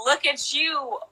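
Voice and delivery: drawn-out, teasing "all fancy"; mock commercial read; sassy ad line. Shown as a demonstration. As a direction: sell the Sprite line with sass. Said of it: "my line was".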